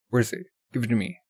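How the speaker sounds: firm, steady demand for the eye; lightly voiced demand. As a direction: ask for it without raising the voice.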